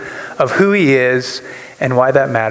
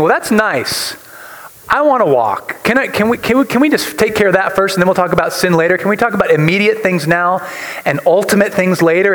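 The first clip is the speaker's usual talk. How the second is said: slightly higher, pleading objection; lightly voiced paralytic; 4 semitones higher than usual. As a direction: plead lightly as the man who wants to walk. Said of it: "if I'm him, I'm thinking".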